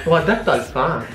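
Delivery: laughing shout. Real, not acted. Grito con risa.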